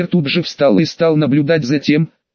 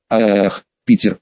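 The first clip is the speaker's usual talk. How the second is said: lower, a mild read-aloud moan; 6 semitones lower, slower than usual. A narrator's reading. Felicia moans Peter's name under him, mild low moan. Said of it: "стонала Фелиция".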